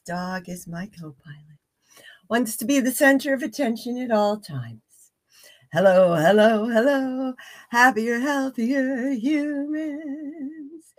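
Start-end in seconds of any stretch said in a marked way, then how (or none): 5.7-10.9 talking around a tablet under tongue. Real, not acted. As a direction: speak with a pill under your tongue. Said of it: "If I sound a little strange, it's because I have an arnica tablet under my tongue".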